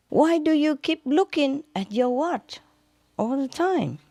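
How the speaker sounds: a golfer fed up with the caddy; annoyed golfer. Acted. Golfer asks caddy, puzzled.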